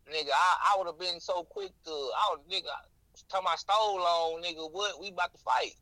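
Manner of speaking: riled up, ready to brawl; pumped, picking a fight; hyped up fight talk. Retold or imitated. Imitating his old quick-to-fight self.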